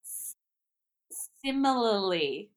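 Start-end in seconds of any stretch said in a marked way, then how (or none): 1.4-2.5 similarly with the first s swallowed, rising; a shaky try at similarly; stumbled attempt. Shown as a demonstration. Attempting the hard word on a podcast, unsure. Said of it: "I'm gonna attempt to say this".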